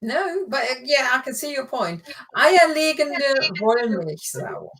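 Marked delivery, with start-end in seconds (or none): 2.3-4.7 slow, careful German demonstration; measured, instructive pronunciation; teacher's model. Shown as a demonstration. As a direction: model the long word slowly for a learner.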